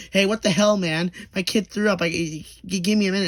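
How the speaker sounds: high, loud, upset protest; annoyed yell. Retold or imitated. Father yelling that his kid threw up, upset. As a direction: complain loudly about the hold-up. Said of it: "and he was like".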